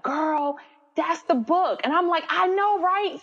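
put-on high, giddy girlfriend chatter; excited agreement. Friends telling her that's the book, excited high retelling. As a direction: pitch it up high, thrilled to agree.

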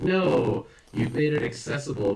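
exasperated protest. Retold or imitated. Fan objecting to jokes in nerd movies, exasperated. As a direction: protest it, leaning hard on the no. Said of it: "where I'm just like".

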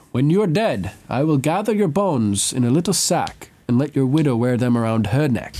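voicing Salvador's chilling threat to Davos in his accent; Caribbean accent. Quoting Salvador's threat to Davos in a Caribbean accent. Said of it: "I love his accent".

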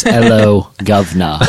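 British greeting, dropped h; mock British accent. Teller quoting his typed greeting, mock British accent. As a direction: put on a cockney-style British hello. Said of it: "in a British accent".

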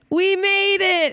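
put-on high, slow Jewish man accent. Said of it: "that weird Jewish man accent".

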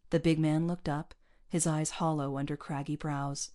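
ordinary delivery

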